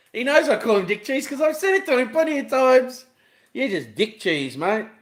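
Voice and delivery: loud jeering at the neighbour; loud mocking. Real, not acted. Vlogger loudly mocks the neighbour to his viewers. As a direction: call it out loud and cheeky.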